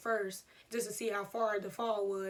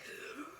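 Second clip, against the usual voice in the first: stifled gasp; 6 semitones higher, 11 dB quieter than usual. Retold or imitated. Acts out holding the scream in.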